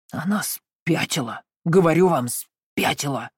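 slow, spiteful insistence; angry rasp. Acted. Uncle declaring Valancy insane, in a spiteful rasp. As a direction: spit out that she's mad. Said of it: "злобно прохрипел он".

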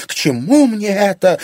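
high, loud, pained protest; moaning protest. A narrator's reading. Anfisa protesting to Irina, moaning protest. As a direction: wail it as the injured party. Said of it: "простонала Анфиса".

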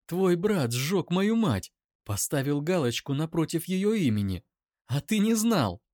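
flings the accusation at him, voice climbing; bitter laugh turning to a scream; bitter outburst. Acted. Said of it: "Эйра засмеялась, но лучше бы закричала".

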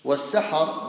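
والسحر said as was-sahar; short "a" after both s and h in والسحر; two fathas. Shown as a demonstration. Teacher defining pre-dawn, والسحر with two "a" vowels. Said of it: "بفتحتين".

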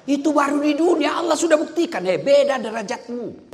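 high, loud crowd-rousing shout; full-force preaching. Real, not acted. Preacher boasts to the crowd of his free trips, full-force preaching. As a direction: fire out short phrases with pauses, loud and high.

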